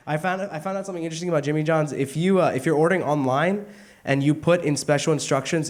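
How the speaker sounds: loud, fast excited telling. Real, not acted. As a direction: belt it out fast. Loud excited punchline build.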